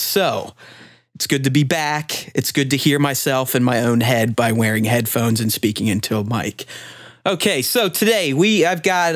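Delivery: upbeat radio host intro. Acted. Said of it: "channel my inner radio voice here for the kickoff".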